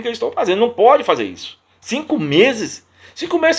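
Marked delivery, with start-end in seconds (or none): 1.8-3.6 incredulous. Real, not acted. Outraged at a five-month wait.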